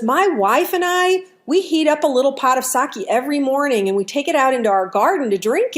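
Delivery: lightly voiced cheerful old man, lifted pitch; smiling old man. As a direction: chat amiably with a hint of the smiling old man. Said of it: "he's got this big bright smile".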